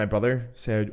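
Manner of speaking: ordinary delivery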